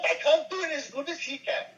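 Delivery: high-pitched comic German accent; excitable high German accent; Ludwig von Drake. Shown as a demonstration. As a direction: do a squeaky German-accented cartoon professor. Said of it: "he can do Ludwig von Drake so well".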